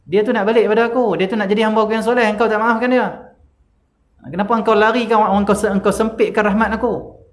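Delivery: thundering reproach of the unforgiving; stern rebuke. Retold or imitated. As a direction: demand an answer on judgment day. God questioning on judgment day.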